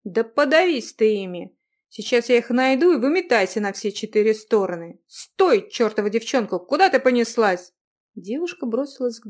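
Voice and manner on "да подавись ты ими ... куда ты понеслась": angry yell. Acted. Young man yells at girl.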